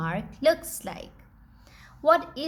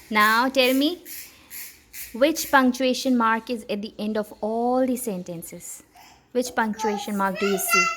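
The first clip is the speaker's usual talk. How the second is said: teacher prompt; 2 semitones higher, 5 dB louder than usual. Real, not acted. Teacher to child, loud encouraging question. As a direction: call the question out clearly to the little one.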